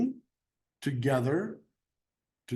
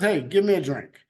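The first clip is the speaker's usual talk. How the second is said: short, plain, a bit louder order; just tell her, no courtesy; blunt demand; 4 dB louder than usual. Shown as a demonstration. Teacher reading Jesus' blunt request to the woman. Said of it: "But it says".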